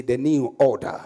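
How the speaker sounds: declared firmly, a little stronger; with conviction. Real, not acted. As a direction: say it like you believe it. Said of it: "Say it with conviction".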